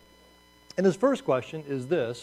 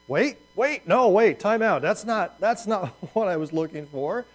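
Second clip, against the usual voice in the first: higher and louder, wait, wait, no; a prophet hammed-up in alarm, calling time out; alarmed protest; 6 semitones higher, 5 dB louder than usual. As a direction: stop God mid-sentence in mock panic. Habakkuk hears God's alarming answer.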